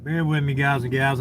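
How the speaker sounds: talking with a mouthful of food; chewing between words; eating while talking. Real, not acted. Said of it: "I'm eating".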